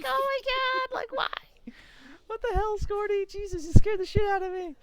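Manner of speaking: high-pitched, flustered outburst; startled exasperation. Acted. Player scolding teammate who popped up alive, startled exasperation. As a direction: scold in shocked, hammed-up relief. Acted startled relief at survival.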